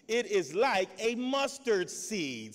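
slow, deliberate reading; scripture reading. Real, not acted. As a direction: read the verse slowly for weight.

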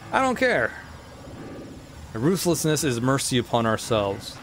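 lightly voiced menacing ghost king. Voices King Boo's dialogue.

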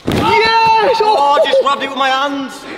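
high, loud triumphant yell; excited yell. Real, not acted. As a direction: celebrate the landing. Celebrating his own landing.

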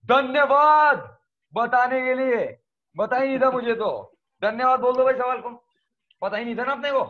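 loud, high-pitched sarcastic thanks; mock gratitude. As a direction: thank it with exaggerated, pretend gratitude. Mock thanks to the exam question. (बनावटी आभार, ऊँची आवाज़ में तंज़)

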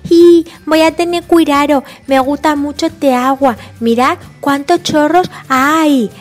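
put-on carefree toddler with baby talk; little George.

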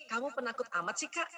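labeling scold. Shown as a demonstration.

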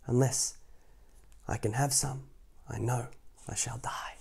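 trailing off to a whisper; fading plea. Acted. Wife fading to a whisper about dying. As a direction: let it die away breathily. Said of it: "she said to her husband".

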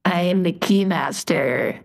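filtered demon voice; voice changer. Acted. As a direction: deliver it through a demonic voice changer. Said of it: "That voice changer is really good".

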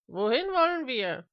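high, urgent question; called out. Acted. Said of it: "rief Mister Smith".

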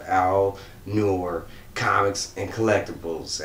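Comics and Collectibles said slowly, word by word; slow careful naming. Shown as a demonstration. Vlogger carefully names a channel for viewers, slow and deliberate. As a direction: spell out the channel name slowly so it comes out right. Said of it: "I'm saying it like that 'cause I'm bad with names".

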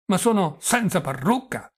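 put-on high, loud old man's outcry; dismayed old prince exclaiming; alarmed old prince. Prince alarmed at missing wig. (vecchio principe allarmato, voce alta)

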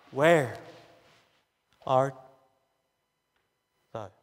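low, slow call with long pauses between the words; God calling. Acted. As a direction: let each word hang like God calling. Refrain, low and spaced.

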